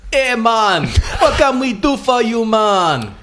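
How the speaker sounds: high, relaxed Jamaican crab voice; laid-back crab. Acted. Game master voicing a friendly crab, high and laid-back. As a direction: greet them like a chill beach crab.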